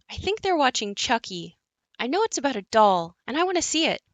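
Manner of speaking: a hint of an eager five-year-old; little girl. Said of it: "The narrator enters as a little girl".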